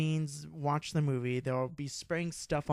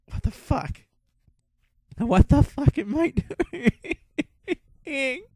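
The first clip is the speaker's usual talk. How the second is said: laughing in disbelief, much higher and louder; tipsy giggling "what am I doing"; half-laughing, amazed at yourself; drunk disbelief; 11 semitones higher, 7 dB louder than usual. Retold or imitated. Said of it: "like, totally out of it".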